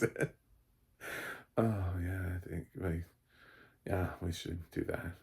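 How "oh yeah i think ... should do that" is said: quiet, drowsy mock sleepy voice; lightly voiced groggy actress; sleepy Tig. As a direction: sound half-asleep.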